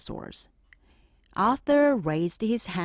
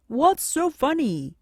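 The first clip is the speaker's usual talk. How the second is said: higher, louder puzzled question; ask, baffled at the laughter; teacher puzzled at the laughing class; 8 semitones higher, 4 dB louder than usual. Acted.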